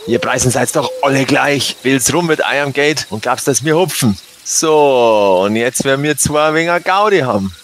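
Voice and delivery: a hint of a gruff Bavarian robber; Bavarian thug. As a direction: taunt him in thick dialect. Robber threatens victim in dialect.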